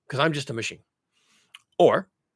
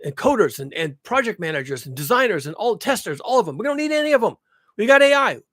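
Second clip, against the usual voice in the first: mock begging executive; 4 semitones higher than usual. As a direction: beg like a panicking tech boss. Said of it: "what they're doing is they're begging".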